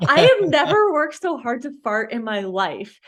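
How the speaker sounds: loud, high-pitched exasperated storytelling; comic exasperation. Real, not acted. Patient telling podcast host about failing to fart, exasperated.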